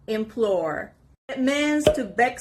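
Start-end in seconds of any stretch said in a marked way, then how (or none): 0.1-0.9 "implore" as im-PLORE; teacher's model "implore", weight on the second syllable; stress on PLORE. Shown as a demonstration. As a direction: lean into the P of "implore". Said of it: "The stress is on the letter P".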